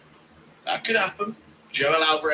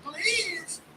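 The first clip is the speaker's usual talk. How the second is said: high, soft falsetto please; Ian impression; 5 dB quieter than usual. Mocking Ian, high pleading please. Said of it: "Impression of Ian saying".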